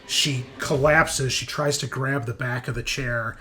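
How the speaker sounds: dramatic, emphatic scene narration; game master narration. Acted. Game master describes a critical hit to the players, dramatic narration. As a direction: narrate the brutal blow with punchy emphasis.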